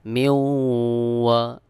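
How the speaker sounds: মিউ held long through the nose into ওয়া; idgham with ghunnah. Shown as a demonstration. Teacher showing idgham to learners, nasal held glide in মিউ. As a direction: merge the n of মিউ into a hummed w. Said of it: "এখানে নুন সাকিনের পরে ওয়াও ইদগাম গুন্না".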